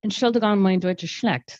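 halting German with an English accent; apologetic German. Shown as a demonstration. An English speaker apologizing in German with an English accent. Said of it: "my horrible accent".

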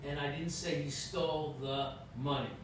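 money stressed, as if something else was taken. Shown as a demonstration. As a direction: land the weight on money. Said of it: "every enunciation, has really a different interpretation".

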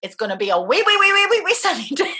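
high, loud cartoon lisp breaking into laughter; Elmer Fudd weather report. Dreamt cartoon forecaster, high Elmer Fudd lisp with laughter. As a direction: play a cartoon weatherman, giggling. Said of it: "what I was hearing in my dream was".

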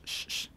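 "sh" as a soft hiss; Chihuahua sh. Shown as a demonstration. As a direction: hold the "sh" sound like a northerner. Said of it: "se resalta mucho la sh". ("sh" norteño de Chihuahua)

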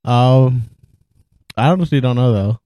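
talking with ice in mouth; words around a mouthful of ice. Real, not acted. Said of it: "I'm eating ice right now".

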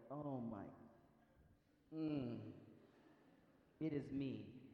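weary groaned aside with long pauses; mock exasperation. Jesus to panicking disciples, mildly exasperated. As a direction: let out patient, understated exasperation. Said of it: "he just hit his head on the table".

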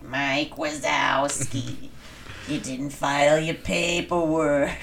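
very slow, drawling office clerk; slug lady voice. Retold or imitated. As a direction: drag every word like a bored clerk. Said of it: "I sound like the fucking slug lady from Monsters, Inc".

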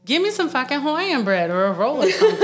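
laughing through a fake outraged rant. To her partner about barbacoa, a laughing indignant rant. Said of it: "I was like".

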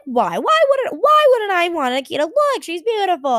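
high, quick protesting friend voice; mock whiny friend. Imitating friend protesting she wants the Akita, high and whiny. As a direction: squeak out a pleading why.

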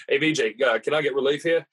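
lightly put-on Australian accent; casual request in a hint of Aussie; imitated Australian golfer. Golfer asking his partner for relief, in light Australian accent. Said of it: "so he just says".

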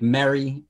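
"Merry" drawn out with its own short e; distinct vowel. Shown as a demonstration. Testing listeners' accents, "Merry" slowly with a short e. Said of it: "those words are pronounced differently".

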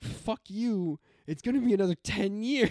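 high exasperated outburst; mock exasperated. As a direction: scoff at the promise. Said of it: "And I'm like".

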